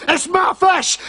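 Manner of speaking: It's my FISH, shouted high on fish; high indignant shout on fish; shouted claim. Acted. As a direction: shout it, landing hard on fish.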